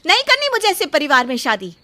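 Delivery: loud, proud and rising at the end; defiant declaration. Acted. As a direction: stand tall and break it off before everyone. Bride defiantly breaks off the engagement. (सबके सामने रिश्ता तोड़ती, ऊँची आवाज़ में)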